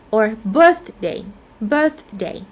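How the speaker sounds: "birthday" stressed on BIRTH. Shown as a demonstration. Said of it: "first syllable stress".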